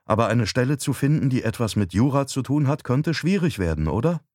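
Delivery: a hint of a sceptical wife; wife, doubtful. Narrator voices wife questioning.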